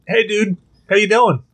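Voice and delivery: cat greeting. Retold or imitated. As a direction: greet like a casual cat buddy. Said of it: "He's like".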